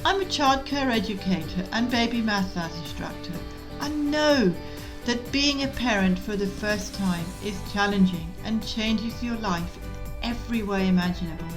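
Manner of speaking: measured, clearly articulated scripted read; podcast intro read. Real, not acted. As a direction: read the show's intro in even, deliberate phrases. Recorded podcast intro and disclaimer.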